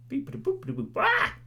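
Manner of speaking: silly mock AI bleeps; robot beeps. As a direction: beep like a little computer. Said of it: "I'm like a A I or something".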